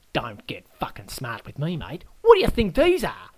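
angry Aussie threat. Acted. Adam warns the guest off, then shouts over the sausages. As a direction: menace first, then bark the question.

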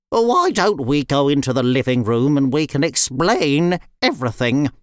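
lightly voiced chicken character; a hint of a character voice, smoothing things over; placating chicken. Red Ribbon placates Nuala and invites the girls, placating.

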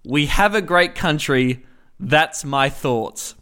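lightly voiced slow Trump, dragging the ending; a hint of Trump, slow and self-satisfied; Trump impression. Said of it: "And Donald Trump replied".

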